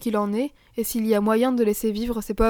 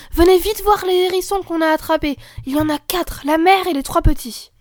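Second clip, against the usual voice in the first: put-on high, breathless little girl bursting with news; eager girl; 7 semitones higher, 6 dB louder than usual. Girl telling friends about caught hedgehogs, eager and high. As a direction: rush the news out like an excited child.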